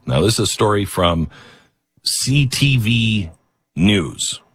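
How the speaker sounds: ordinary talk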